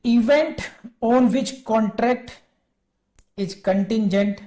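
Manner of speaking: reading the law aloud very slowly, word by word; slow statute reading. Acted. Teacher reading section thirty four to students, slow dictation. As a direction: dictate each phrase of the section so students can follow. Reads statute text to class.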